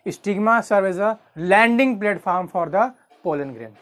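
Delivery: very slow, word by word for notes; slow dictation. Shown as a demonstration. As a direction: spell it out slowly so they can write. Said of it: "ध्यान से सुन लो". (धीरे-धीरे लिखवाते हुए)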